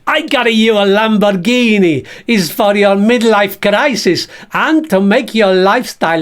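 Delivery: lightly voiced boastful puppet; Bert voice. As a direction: brag as the flashy bag. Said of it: "This is Bert the Bag".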